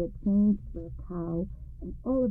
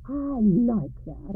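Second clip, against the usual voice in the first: slow, louder amused exclamation; amused exclaim; 3 semitones higher, 4 dB louder, much slower than usual. Acted. Englishmen exclaim, amused by the happy couple. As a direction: savour it, pleased. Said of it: "exclaimed both Englishmen together".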